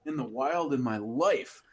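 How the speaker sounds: lightly voiced amazement; imitating excited buddy. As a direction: play a buddy amazed by a find. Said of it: "my buddy Greg says".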